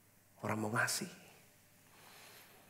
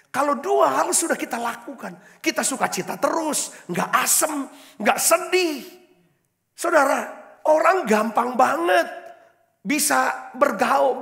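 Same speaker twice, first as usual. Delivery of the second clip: higher and louder, driving sermon voice; full-force preaching; 10 semitones higher, 6 dB louder than usual. Acted. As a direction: preach it out to the congregation, slowed on key words.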